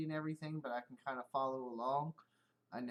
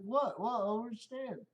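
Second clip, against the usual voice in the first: lightly voiced baffled coworker, higher; confused buddy; 7 semitones higher, 3 dB louder than usual. Coworker still doesn't get the bald joke, lightly voiced and baffled. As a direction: play him clueless and puzzled. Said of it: "He's like".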